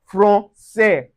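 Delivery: "français" slowly as fron-seh; soft S in "français", syllables apart. Shown as a demonstration. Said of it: "Ensures a soft S sound".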